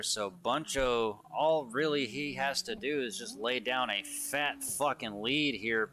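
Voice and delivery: energetic live race commentator voice; play-by-play commentary. Acted. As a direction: call the drift battle as it happens.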